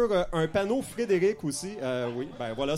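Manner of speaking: ordinary talk, nothing marked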